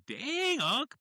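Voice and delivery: retold mock shock. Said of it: "I was like".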